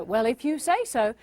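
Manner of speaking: spirited, punchy comeback; firm demo with a lift of energy; with some oomph. Shown as a demonstration. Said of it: "put some oomph into it".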